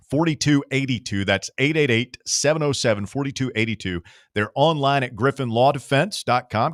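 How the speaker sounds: radio sponsor read, punchy. Acted. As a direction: read it like a live radio spot.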